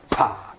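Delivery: a short puffed "pa" like a spit landing; imitated spit. Telling the congregation about the spit on the train, a quick puffed spit noise. Mimics the spit hitting him.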